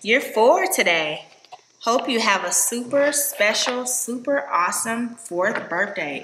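reading a card aloud. Real, not acted. Reads birthday card aloud.

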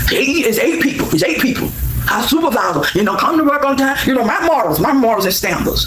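lightly mocking the boastful supervisor; mock bragging supervisor. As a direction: parody his proud speech. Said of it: "hear you brag about being a supervisor".

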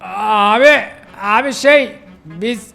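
high, hesitant excuse-making voice; stall, then pin the blame on someone; anxious, high-pitched pleading; nervous tattling friend. Acted. Friend nervously blames Mikey to owner.

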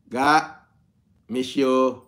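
ordinary delivery

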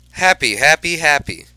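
high, loud burst of joy; bubbling over with delight; overjoyed. Acted. Hamster thrilled Miss Mac remembered him, joyful.

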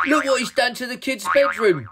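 high, loud shocked exclamation; gasped dismay. A narrator's reading. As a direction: cry out aghast at the mess. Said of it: "gasped Ray".

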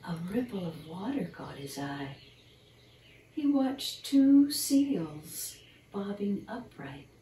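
put-on gentle storybook narration for children; bedtime story reading. Reading a squirrel bedtime story to young listeners, storyteller voice. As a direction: read it like a picture book at bedtime.

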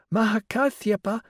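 put-on high, breathless child voice; eager little girl with a lisp. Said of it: "Breathlessly and with a lisp".

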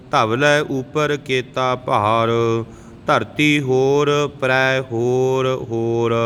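slow, measured Gurbani recitation; scripture recitation. Shown as a demonstration. Teacher models Japji verses for learners, measured recitation. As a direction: recite line by line, drawing out the endings.

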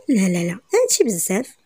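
usual speaking voice

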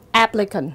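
"applicant" with stress on AP; first-syllable stress. Shown as a demonstration. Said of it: "dấu nhấn rơi vào âm tiết thứ nhất". (đọc "applicant", nhấn âm tiết thứ nhất)

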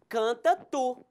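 Canta stressed on its first syllable, CAN-ta. Shown as a demonstration. Teacher showing the tú form, Canta stressed on CAN. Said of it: "cuál es la distinción de canta tú".

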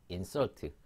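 "insult" as in-SURT, stress at the end; stress on second syllable. Shown as a demonstration. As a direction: lean on the last syllable of "insult". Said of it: "인설트는 다 설트 뒤에 강세가". ("insult"의 뒤 음절에 강세)

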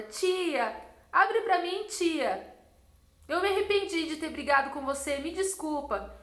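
put-on a light little-girl voice saying sorry; pleading little girl. Child voiced, begging at the door.

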